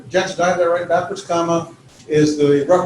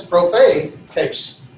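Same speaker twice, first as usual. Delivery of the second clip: Prophetes as pro-FE-tes; accent on middle syllable. Shown as a demonstration. Teacher showing the accent in a Greek word, Prophetes stressed on FE. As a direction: say Prophetes in three syllables, leaning on the middle one. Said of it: "that's where the accent is".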